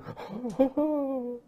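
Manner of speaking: high, drawn-out fretful gasp; high mock-horrified intake; acted gasp. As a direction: gasp like a child caught out. Mimics a contrite child before apology.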